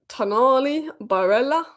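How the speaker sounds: lightly put-on Italian accent on the names, rising up; mock Italian accent. Vlogger dreaming of midfielders, a playful mock Italian accent. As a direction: roll the names like a half-hearted Italian. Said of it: "I don't know what that accent was".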